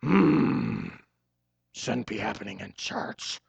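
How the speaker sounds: disapproving bigwigs. Retold or imitated. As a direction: sniff like a stuffy official. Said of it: "they're like".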